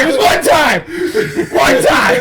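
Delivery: high-pitched excuse through laughter; mock defensive protest. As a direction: imitate an embarrassed denial, laughing. Mimics Eric defending himself.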